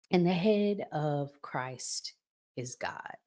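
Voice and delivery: slow, measured Bible reading; scripture reading. Acted. Host reading Corinthians to viewers, slow and measured. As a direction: read the verse deliberately.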